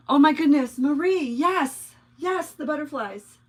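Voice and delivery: gasping delight, pitched high; real excitement. Real, not acted. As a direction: seize on a friend's brilliant suggestion. Delighted by viewer's suggestion.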